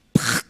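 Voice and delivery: "prac" seco y sin voz; golpe de caída imitado. Retold or imitated. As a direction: imita un porrazo con la boca. (golpe seco imitado)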